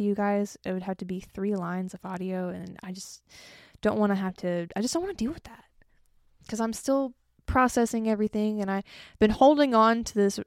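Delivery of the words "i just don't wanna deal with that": whispered aside. Real, not acted. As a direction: drop to a breathy whisper for the complaint. Aside about not wanting to deal.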